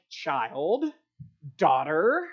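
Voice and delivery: gently chiding form of address; mild rebuke. Shown as a demonstration. Comparing the master's word to a parent's, mildly rebuking. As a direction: say each word as a small reproof. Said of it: "you guys sort of get the inflection".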